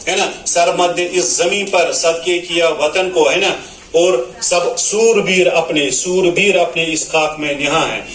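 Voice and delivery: sing-song tarannum recitation of the verse; melodic poem recital. Shown as a demonstration. Teacher recites a nazm to her students in a melodic tarannum. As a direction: chant the lines like a mushaira reading.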